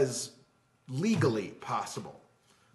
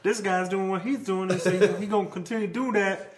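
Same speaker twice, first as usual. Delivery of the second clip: Clarence voice; 6 semitones higher than usual. Pretend. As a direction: ham up a rambling buddy's odd accent, grinning. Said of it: "That's a voice I do".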